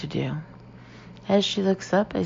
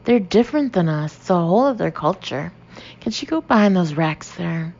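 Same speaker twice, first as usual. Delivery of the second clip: insistent; 4 dB louder than usual. Acted. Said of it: "insists the girl".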